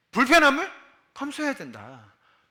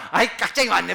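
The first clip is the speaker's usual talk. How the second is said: market auntie in Busan dialect; 6 dB louder, faster than usual. Retold or imitated. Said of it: "뭐 이러면서".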